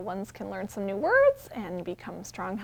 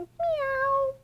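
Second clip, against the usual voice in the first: high cat "Meow". Shown as a demonstration. Librarian models a high kitty meow. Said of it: "Can you say".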